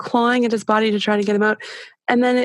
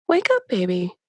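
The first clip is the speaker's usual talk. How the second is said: clear curious voice. Retold or imitated. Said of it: "my voice is very kind of clear and, and almost curious".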